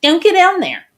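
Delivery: high, loud yell to keep off; yelled warning. Retold or imitated. Retelling how she yelled at him on damaged ground, yelled warning. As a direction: shout it as an urgent warning, high-pitched. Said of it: "I was yelling at him".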